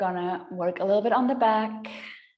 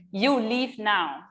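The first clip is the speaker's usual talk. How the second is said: put-on bossy toddler; 6 dB louder, slower than usual. Toddler son ordering mom to work, bossy. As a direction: play the little son shooing mom off. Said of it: "he's like".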